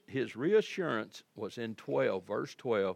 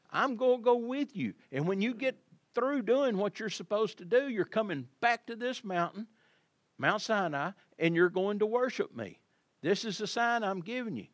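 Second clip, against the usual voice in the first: a light, raised voice of God reassuring; voicing God; 6 semitones higher than usual. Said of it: "he was telling Moses".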